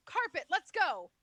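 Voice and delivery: put-on slow shouted call, Arabic accent. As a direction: summon the carpet in an Arabic accent. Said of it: "in an Arabic accent, scream".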